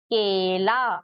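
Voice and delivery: "केला" with a held ay in the first syllable; weight on ए. Shown as a demonstration. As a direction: lean on the ay of "केला". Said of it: "थोड़ा जोर देके ही पढ़ते हैं".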